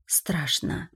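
trembling frightened whisper; final girl. A narrator's reading. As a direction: whisper it, shaking with fear. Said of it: "дрожа прошептала она".

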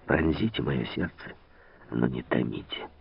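тихо и мягко, ниже; с нежной мольбой, негромко. A narrator's reading. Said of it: "мягко отвечал граф". (граф с обнажённой шпагой, мягко и тихо)

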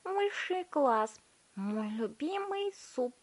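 very high, slow gushing; delighted girl. A narrator's reading. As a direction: swoon over the taste. Violetta savouring.

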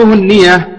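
النية pronounced without shadda, to fit the metre; lightened ya in النية. Shown as a demonstration. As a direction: say النية with a single, undoubled ya. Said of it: "هنا بالتخفيف للوزن".

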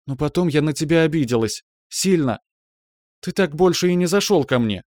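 high, sulky pouting reproach. Acted. Girl pouts at her friend for never visiting. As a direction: pout it out, mock offended. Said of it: "надула губы".

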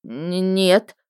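a faltering, halting no; nervous stammer. Acted. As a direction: stumble over the word. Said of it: "запнулся он".

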